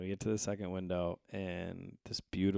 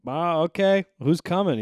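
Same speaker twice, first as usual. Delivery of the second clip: retold own reply; 11 semitones higher, 13 dB louder than usual. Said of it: "And I was like".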